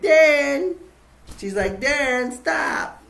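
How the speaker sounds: high, loud scolding of Dan; scolding call. Retold or imitated. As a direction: call him out sharply, half laughing. Girlfriend scolding playful Dan.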